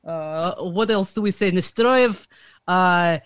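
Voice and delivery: put-on halting Russian accent. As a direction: search for words in a Russian accent. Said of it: "with a Russian accent".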